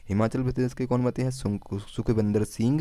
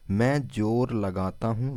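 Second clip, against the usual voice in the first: slow mnemonic; slower than usual. Shown as a demonstration. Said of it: "अब इसको कैसे याद रखेंगे कि".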